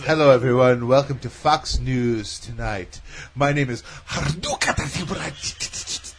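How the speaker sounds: slow, overdone anchor voice with a foreign name; hammed-up newsreader intro; mock news anchor. Joking about accented names, a slow mock Fox anchor. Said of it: "mock newscaster intro".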